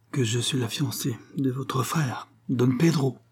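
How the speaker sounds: outraged queen. Acted. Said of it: "du ton d'une reine outragée".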